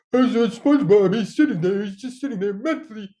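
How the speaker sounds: squeaky exasperated cartoon complaint; mock cartoon rant. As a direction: rant like a fed-up cartoon friend. Acted cartoon exchange, another voice.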